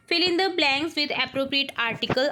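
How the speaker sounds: very slow, word by word dictation. Shown as a demonstration. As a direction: read it out slowly for the class to write. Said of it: "teacher reads instruction". (धीमे-धीमे बोलकर लिखवाना)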